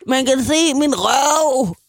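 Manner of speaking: high, slow, loud yell; shouting. Retold or imitated. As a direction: yell it at the girls behind you. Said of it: "jeg råbte til pigerne". (langsomt råb)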